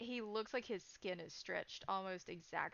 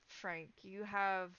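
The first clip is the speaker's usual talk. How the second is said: GM scene narration. Acted. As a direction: draw the players into the eerie memory. Game master's scene narration.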